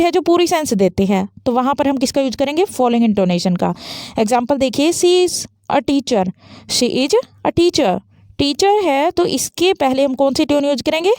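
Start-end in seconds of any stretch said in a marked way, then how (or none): 4.9-6.2 "She is a teacher" said slowly, tune falling; falling intonation. Shown as a demonstration. Teacher shows a complete simple sentence, falling intonation. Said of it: "falling". 6.7-8.0 slow "she is a teacher" with a falling tune; falling intonation. Shown as a demonstration. Teacher repeats the example sentence for students, falling intonation. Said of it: "falling".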